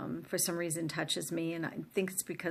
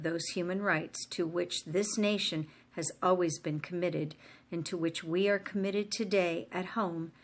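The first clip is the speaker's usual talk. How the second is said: formal speech. Acted. Reads Kennedy's inaugural address aloud.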